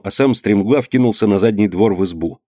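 ordinary delivery

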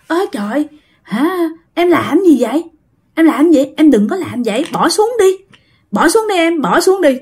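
high, pleading cries to put it down; frightened pleading. Retold or imitated. Sister begging her brother to drop the pot stand, high and frightened. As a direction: beg him to drop the pot stand, voice climbing. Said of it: "kêu vậy đó".

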